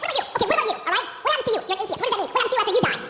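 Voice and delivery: mild retold exasperation; snapping back. Comic confronting the laughing atheist, snapping retort. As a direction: fire the questions back at him. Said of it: "finally I just snap".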